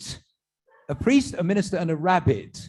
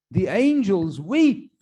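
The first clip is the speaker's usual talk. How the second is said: slow solemn; 4 semitones higher, 5 dB louder, much slower than usual. Acted. Rabbi's solemn pronouncement.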